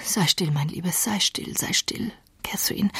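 soft, whispered soothing; hushing. Acted. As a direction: hush her tenderly. Heathcliff hushing dying Catherine.

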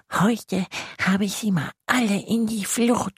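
lightly high, satisfied musing; contented little monster. Acted. Tiny monster in the reeds thinks happily to itself. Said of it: "schaut zu und denkt".

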